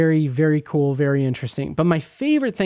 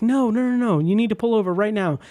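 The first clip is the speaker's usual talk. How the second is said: higher, insistent no, no, no; urgent insistence; 5 semitones higher than usual. Retold or imitated. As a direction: press her to stop the car now. Retelling his panicked demand.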